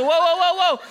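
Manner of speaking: high, loud string of calls; mock-urgent attempt to halt a fight; acted intervention. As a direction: play up the peacemaker rushing in. Breaking up a drive-thru fight.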